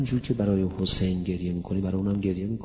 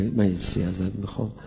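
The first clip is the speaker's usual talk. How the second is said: Hussein pleading gently. Retold or imitated. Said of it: "رفته پیش خدا صدا زده".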